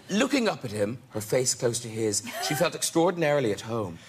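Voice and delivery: romantic novel reading. Shown as a demonstration. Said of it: "You can act this out if you want".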